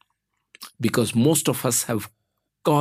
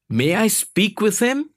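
high, rising polite question; kindly request; 9 semitones higher than usual. A narrator's reading. Boss asking a child for his father, kindly request. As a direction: ask kindly, lifting the pitch. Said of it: "he kindly requested".

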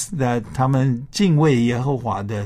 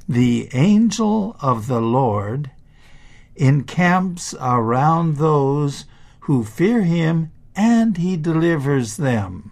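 put-on reading to a toddler; 2 semitones higher than usual. Shown as a demonstration. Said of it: "go through this text one more time".

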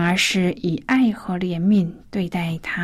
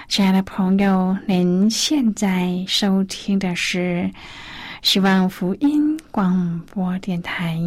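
radio station announcement. Acted.

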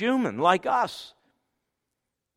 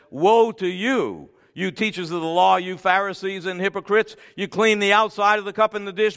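loud, raised scripture denunciation; forceful rebuke; 3 semitones higher, 3 dB louder than usual. Acted. Jesus rebuking the Pharisees and hypocrites, forceful. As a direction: thunder the woe at the hypocrites.

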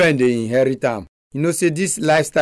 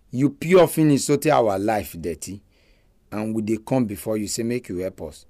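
praying; 2 semitones lower than usual. Real, not acted. Leads a prayer.

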